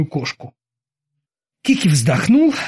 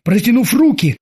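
ordinary delivery

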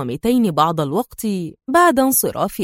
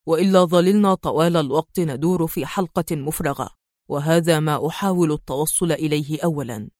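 calm hero; 5 semitones lower, 4 dB quieter than usual. Acted. Adham's calm male voice.

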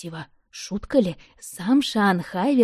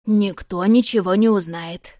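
firm, slow, louder promise; resolute reassurance; 5 dB louder than usual. Acted. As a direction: settle it with slow certainty. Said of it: "решительно заверил Тор Родев". (решительно, медленно и громче)

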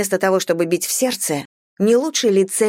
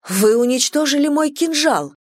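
higher, outraged exclamation; outraged cry; 8 semitones higher than usual. A narrator's reading. Girl crying out at the god for destroying her dagger, higher outraged voice. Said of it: "воскликнула я".

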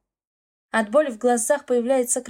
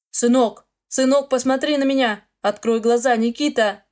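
muffled voice; 4 dB louder than usual. Acted. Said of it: "Слышу глухой голос".

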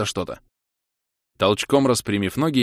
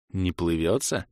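gently asking; 3 semitones lower, 4 dB quieter, slower than usual. Acted. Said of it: "ласково уточнил я".

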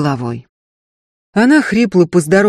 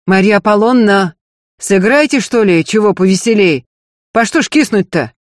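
loud, higher call across the hall; calling out loudly; 4 semitones higher, 4 dB louder than usual. Acted. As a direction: call out to the pianist. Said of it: "громко позвал".

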